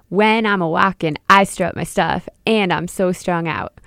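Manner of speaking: spoken lyric with stressed words pushed; accented lyrics. Shown as a demonstration. Teacher speaking the lyrics to show the word accents. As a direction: lean on strut, stuff and strung. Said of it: "those words are accented even when I'm speaking".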